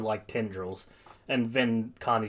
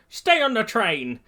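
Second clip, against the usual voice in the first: high, raised urgent command; yelled order; 10 semitones higher, 5 dB louder than usual. Acted. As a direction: yell a warning over the action. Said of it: "Gran Torino yells".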